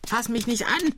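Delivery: very high, distrustful protest; high-pitched cry without extra volume. A narrator's reading. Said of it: "schrie die alte Frau". (hoch und abwehrend aufschreiend)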